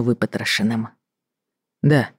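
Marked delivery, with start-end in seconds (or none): 1.8-2.1 grimly. Acted. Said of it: "мрачно произнёс он".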